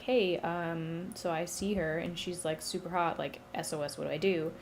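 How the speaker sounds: low, hushed, awkward request in a retelling; sheepish plea. Retold or imitated. Hades asks Zeus for advice on a crush, sheepish and quiet. Shy god asking Zeus for help.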